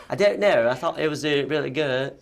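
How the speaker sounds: high, loud mock protest; mock-defensive protest. Defending own bad accent in retold exchange.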